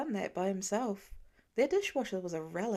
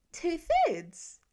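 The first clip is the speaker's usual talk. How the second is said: put-on high, louder little-boy voice as it clicks; the penny drops for a small boy; dawning child; 6 semitones higher, 4 dB louder than usual. A narrator's reading. Nate answering Laura, high and delighted. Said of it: "Nate's brow cleared".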